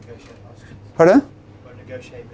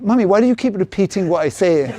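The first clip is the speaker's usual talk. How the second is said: quoting daughter while laughing; amused retelling of daughter; laughing through a quote. Retold or imitated. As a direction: laugh through the teenager's complaint. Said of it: "my daughter kept saying".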